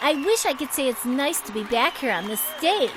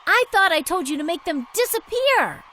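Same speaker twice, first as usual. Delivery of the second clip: higher, indignant disbelief; shocked outrage; 4 semitones higher than usual. Acted. Diva outraged that the rival is back, shocked demand. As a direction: demand an answer from the assistant.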